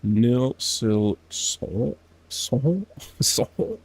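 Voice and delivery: nil, sil, sol with a nasal French sound, rising; clumsy French nasal practice; nasal French try. Shown as a demonstration. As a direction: push the vowels through the nose. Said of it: "you make the nasal sound like French".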